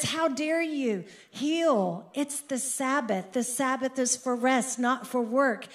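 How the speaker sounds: scolding like an outraged official; indignant leader. Retold or imitated. Synagogue leader rebuking Jesus for healing, mild mock indignation.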